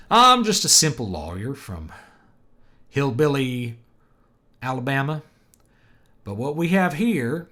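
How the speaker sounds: loud, high mock Southern lawyer drawl. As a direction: stretch it out like a hillbilly Alabama lawyer. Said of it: "that drawl tends to be associated".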